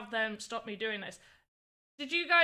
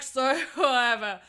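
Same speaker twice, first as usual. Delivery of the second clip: dismissive brush-off; 2 semitones higher, 8 dB louder than usual. Retold or imitated. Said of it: "I'm like".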